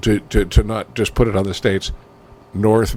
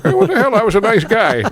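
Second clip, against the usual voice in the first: put-on high, loud, offended old man from the grave; a grandfather's spirit wronged and squawking; indignant ghost grandpa; 11 semitones higher, 4 dB louder than usual. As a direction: protest your innocence from beyond. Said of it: "dad's dad spitting in his grave".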